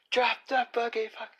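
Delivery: very high cartoon squeak; squeaky high voice.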